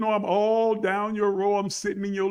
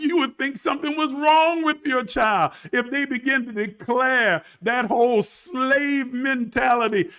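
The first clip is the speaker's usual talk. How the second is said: usual speaking voice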